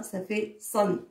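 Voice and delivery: san said slowly with a nasal n ending; teacher draws out san to show the tanwin. Shown as a demonstration. Teacher shows the children the tanwin ending. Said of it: "je mets les deux fathas".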